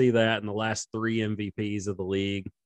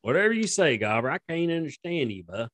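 much higher, dismissive hick voice; mocking redneck; 6 semitones higher than usual. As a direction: brush him off like a dumb yokel. Mocking hick announcer reply.

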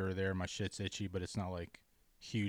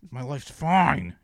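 slow, loud, higher self-reassurance; forced insistence; 5 semitones higher, 12 dB louder, slower than usual. Retold or imitated. Stressed driver lying to himself, loud forced insistence. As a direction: drag it out, straining to convince yourself. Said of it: "lying to myself".

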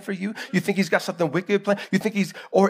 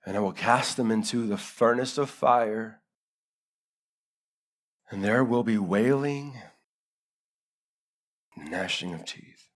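solemn scripture reading; 6 semitones lower, 6 dB quieter than usual. Acted. Reads scripture slowly and softly.

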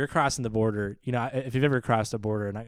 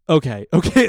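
laughing mock guard; 5 semitones higher, 8 dB louder than usual. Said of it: "he's like".

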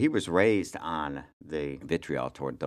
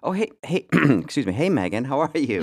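high, loud mock British Prince Harry voice; a hammed-up posh English royal on the phone; British accent impression; 8 semitones higher, 6 dB louder than usual. The speaker doing Harry calling him, British accent. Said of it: "my accent falls apart".

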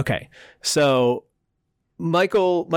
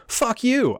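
mock defiant; 13 semitones higher than usual. Retold curse at coach.

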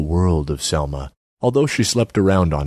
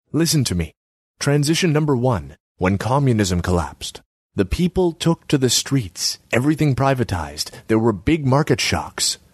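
higher pitched, nagging artsy woman; Selma's voice; 6 semitones higher than usual. Acted. Selma needles Borislav about his empty kiosk, high voice.

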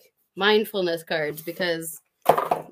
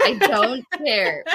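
laughing dismissal; 4 semitones higher, 4 dB louder, slower than usual. Real, not acted. Dismissing friend's worry.

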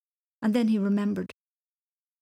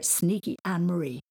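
mocking taunt; 2 semitones higher, 4 dB louder than usual. Mocking rhyme about cousin.

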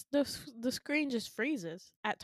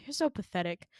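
imitated weary friend, sighing first; sigh, then give in with mock disdain; exasperated sigh; 3 semitones lower than usual. Friend gives in to begging, mock exasperated sigh. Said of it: "And she sighs".

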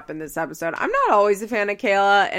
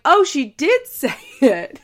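laughing disbelief; 6 semitones higher, 7 dB louder than usual. Real, not acted. Host's reaction to Stefan's silence.

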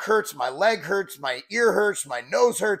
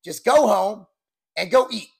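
lightly attempted bodybuilder's accent; Ronnie Coleman accent; 3 dB louder than usual. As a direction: finish the quote in the bodybuilder's accent, a bit louder. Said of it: "I'm trying my best to do the accent".

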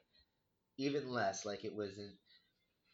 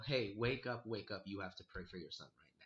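lightly voiced voice in the head, sinking softer; 2 semitones lower, 4 dB quieter than usual. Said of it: "heard a voice in my head".

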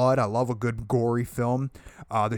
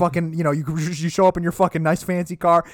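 mock stern scolding; 5 semitones higher, 6 dB louder than usual. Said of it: "he's like".

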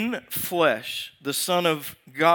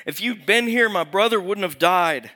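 accusation; 4 semitones higher, 6 dB louder than usual. Acted.

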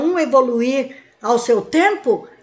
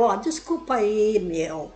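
casual apology; 4 semitones lower, 6 dB quieter than usual. Shown as a demonstration. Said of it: "vai lá no espelho e fala".

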